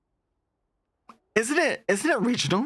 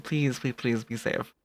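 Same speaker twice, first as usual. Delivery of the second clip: soft, sincere repeated plea; gentle pleading; 3 semitones lower, 4 dB quieter, slower than usual. Real, not acted. Streamer begging a viewer to be safe, gentle pleading. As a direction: plead softly, settling lower and quieter.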